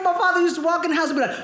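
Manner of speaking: laughing through the words. Real, not acted. Comic laughing through the setup. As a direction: giggle while telling it.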